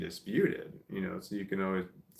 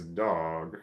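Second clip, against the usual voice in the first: DOG lower, almost two syllables, southern; southern drawl on DOG; 4 semitones lower than usual. Shown as a demonstration. Showing the southern way to say it, DOG drawled. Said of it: "almost like it's two syllables".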